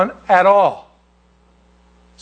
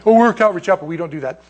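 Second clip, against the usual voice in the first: mock denial; 2 semitones higher, faster than usual. Mocking his own church's denial.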